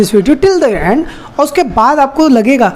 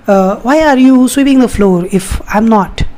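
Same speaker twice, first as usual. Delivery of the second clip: wrong slow way; much slower than usual. Shown as a demonstration. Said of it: "ऐसे नहीं".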